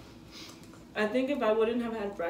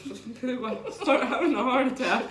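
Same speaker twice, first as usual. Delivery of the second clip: laughing; 3 semitones higher than usual. Real, not acted. Laughing at own joke.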